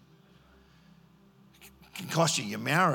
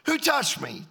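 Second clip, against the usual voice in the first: startled question; 11 semitones higher than usual. Acted. Jesus asks in the story.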